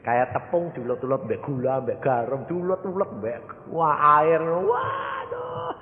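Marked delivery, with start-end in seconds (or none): 4.4-5.7 high-pitched drawn-out "waduh"; mock wailing cry. New believer crying out under kneading, mock wailing. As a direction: wail like dough being kneaded. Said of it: "Teriak-teriak bilang".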